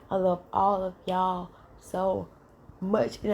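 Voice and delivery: words stretched through a yawn; sleepy yawn while talking. Real, not acted. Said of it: "I'm sorry I'm yawning a little bit".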